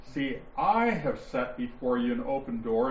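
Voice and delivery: "I" stressed and held slightly. Shown as a demonstration. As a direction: make "I" stand out from the verse. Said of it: "You're going to hear me emphasize".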